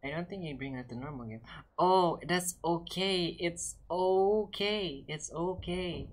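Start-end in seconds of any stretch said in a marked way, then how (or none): 1.8-6.1 slow, soothing it's okay; soothing reassurance. Real, not acted. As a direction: comfort them, slow and gentle. Consoling a teammate.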